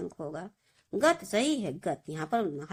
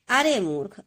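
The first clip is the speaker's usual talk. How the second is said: अरे मूर्ख called out louder as an exclamation; exclaiming; 5 dB louder than usual. Retold or imitated. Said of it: "विस्मयाद बोधक चिन्ह".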